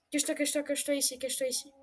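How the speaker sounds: hushed urgent whisper; whispering while hiding. Real, not acted. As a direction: whisper so the monster can't hear. Telling friend to hide.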